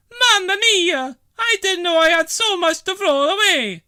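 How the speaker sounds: overwhelmed by the blaze; amazed Bella. Acted. Bella gasping at her huge bonfire.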